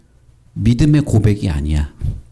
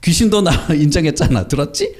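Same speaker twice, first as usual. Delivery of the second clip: higher, gleeful show of agreement; mock-impressed, pitched up; pretend approval; 4 semitones higher than usual. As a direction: play someone proudly pointing it out to the children. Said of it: "우리 같으면".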